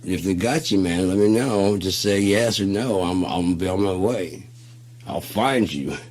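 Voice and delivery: steady him like a rescuer; urgent rescue promise. Retold or imitated. Dude promising friend on phone to come rescue, urgent.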